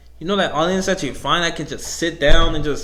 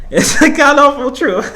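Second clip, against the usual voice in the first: louder and higher, stated as fact; a loud, pitched-up announcement; emphatic declaration; 7 semitones higher, 7 dB louder than usual. Real, not acted. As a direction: proclaim it boldly. Repeats the line, then laughs.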